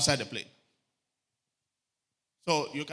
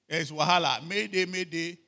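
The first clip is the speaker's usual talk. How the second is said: raised, urgent mock distress call; pilot's alarmed mayday, hammed up; 5 semitones higher, 7 dB louder than usual. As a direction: cry mayday like a panicking crew. Panicked pilot announcement retold.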